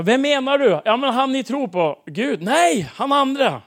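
loud, high, exasperated back-and-forth; animated re-enacted exchange. Preacher replaying a confused exchange with the man, loud and agitated.

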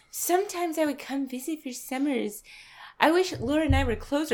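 soft, affected airy imitation; Madeline's affected airy voice. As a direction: mimic an awkwardly airy speaker. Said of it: "airy voice thing".

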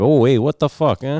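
mock New York Italian-Irish accent. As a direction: exclaim like a Brooklyn Italian caricature. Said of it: "that's kinda the accent you get".

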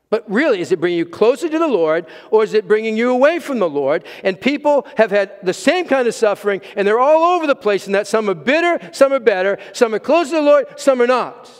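loud, high, driving preacher's climax; preaching at full force. Acted. Pastor urging the congregation, at full preaching force. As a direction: hammer the point home to the congregation. Preacher pressing the real question.

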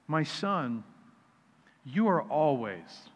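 soft, slow fatherly reassurance; tender father. Acted. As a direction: speak gently to a hurt son. Father's tender reply in parable.

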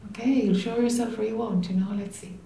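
softly, with a light lift; soft, easygoing. Shown as a demonstration. Teacher models the inner invitation to love, soft. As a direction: say it softly, letting it go. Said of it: "It's gotta get that soft".

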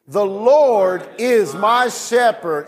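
slow and measured, leading the congregation; slow leading read. Shown as a demonstration. Pastor leading his church in a slow unison read. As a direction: read it aloud slowly for them to echo. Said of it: "Read it with me".

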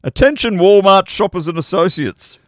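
loud, high PA announcement voice; mock tannoy call to shoppers; hammed-up public address read; store announcement. Reading out Beth's store announcement.

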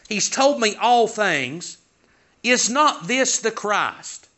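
slow, with a questioning tune on "Is not this the Christ"; asking, not telling. Shown as a demonstration. Preacher showing the woman's words as a question, slow questioning tune. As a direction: let "Christ" lift as a real question, slowly. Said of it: "notice the way she says it".

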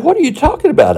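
sharply rising, stunned question; shocked. Retold or imitated. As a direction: ask it stunned and high. Teacher shocked at student.

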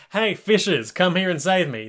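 hammed-up calling out to be rescued; mock plea for help. Sinking stand calls the fishes to save him, mock plea.

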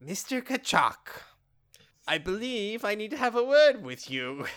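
lightly voiced, measured captain; captain impression. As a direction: imitate a captain requesting a word. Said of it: "This is how the captain sounds".

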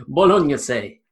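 slow Bolognese as "bolon-yeh-seh", through laughter; Italian pronunciation. Shown as a demonstration. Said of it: "Tom's got Italian relatives".

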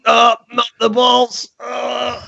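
rising mock dread; mock panic. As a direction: plead in hammed-up fear. Voicing the victim.

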